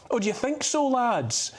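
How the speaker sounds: high-pitched sarcastic question; mocking disbelief. Real, not acted. Commentator scoffing at politicians' hundred-year pledge, mocking disbelief. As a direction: jeer at them, pitch jumping up.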